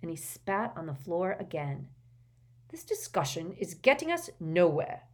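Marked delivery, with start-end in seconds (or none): 2.7-5.0 firm. Acted. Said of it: "said Ogden firmly".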